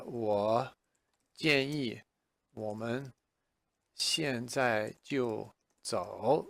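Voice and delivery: "我建议我们现在就走" slowly, word by word; slow model sentence. Shown as a demonstration. Teacher models the sentence for learners, slowly. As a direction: pace out each word. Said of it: "So you would say".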